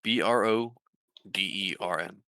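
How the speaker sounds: letters in two groups, then the name; spelling out. Shown as a demonstration. Game master spells a town name for a player, deliberate. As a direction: spell it out clearly, pausing before the name. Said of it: "can you spell it again?".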